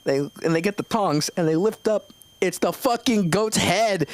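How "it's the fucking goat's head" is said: laughing. Real, not acted. Punchline reveal, laughing.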